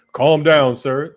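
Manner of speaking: loud, barked calm down; mocking a cop who shouts calm down; mock cop order. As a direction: bark it like a cop on the stop. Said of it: "They telling you to calm down".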